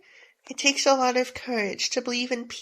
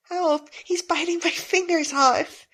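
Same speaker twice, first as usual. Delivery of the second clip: panicked cry; 5 semitones higher than usual. Acted. Finger bitten in fight.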